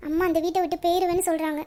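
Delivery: softly crying out the truth to her friend; quiet, teary voice, holding back sobs; tearful confession. Acted. Nila admits to Valli she doesn't want the marriage, tearful. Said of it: "ஏன்டி நிலா அழுவுற?".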